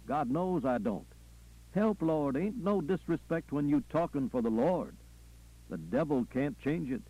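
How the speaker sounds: fervent Southern preacher with chanted refrains; preacher, insistent. Acted. Preacher telling his flock the record is on file, insistent. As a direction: drive the refrain home, punctuated by interjections.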